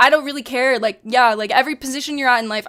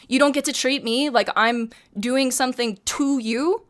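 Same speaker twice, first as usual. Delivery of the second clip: heated but not yelling; firm heated talking. Retold or imitated. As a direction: press hard without raising to a shout. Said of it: "I wasn't yelling, but I was, like, talking like this".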